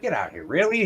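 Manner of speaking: mock astonishment; amazed disbelief. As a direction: react like you can't believe it. Guy amazed at zookeeper's claim.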